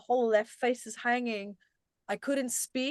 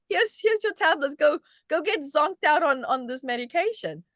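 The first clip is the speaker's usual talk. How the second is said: mocking dismissive doctor; 4 semitones higher, 4 dB louder than usual. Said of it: "He's just like".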